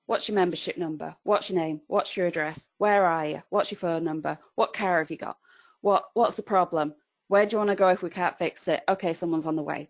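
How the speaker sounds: lightly imitated robotic call script; flat, robotic monotone. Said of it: "it was flat, it was monotone".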